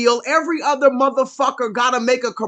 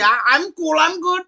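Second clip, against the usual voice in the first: put-on breezy, higher Indian accent; 6 semitones higher than usual. Man brushing off the injection, breezy Indian accent. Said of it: "That's what he told me".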